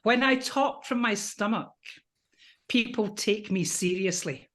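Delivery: voice of power. Shown as a demonstration. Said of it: "It's my voice of power".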